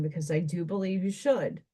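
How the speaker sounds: talking through a yawn; words stretched by a yawn. Real, not acted. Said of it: "Sorry, that was a yawn".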